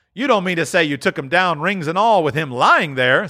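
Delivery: put-on high, wheezy old dealer voice; a crafty old fence welcoming them; sly old pawnbroker; old Joe.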